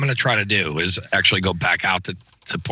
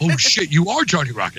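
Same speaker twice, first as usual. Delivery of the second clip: retold sudden recognition; 5 semitones higher than usual. Fan recognizes him.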